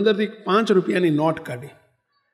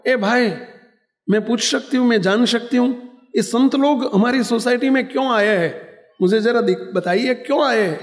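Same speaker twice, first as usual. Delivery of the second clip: tag; 5 semitones higher than usual. Retold or imitated. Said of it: "અને એમણે કહ્યું".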